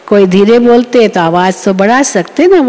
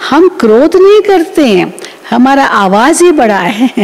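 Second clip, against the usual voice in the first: mock excuse; 2 semitones higher than usual. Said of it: "कहते हैं".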